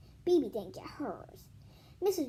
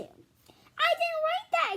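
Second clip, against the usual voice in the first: high, loud, slow protest; loud drawn-out denial; exclaiming; 7 dB louder, much slower than usual. Acted. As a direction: cry it out in shock. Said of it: "exclaimed B B".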